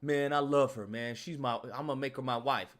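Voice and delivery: low, earnest lovestruck guy; smitten boyfriend. Acted. Man telling his friend he loves her, smitten. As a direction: confess your love in a low voice.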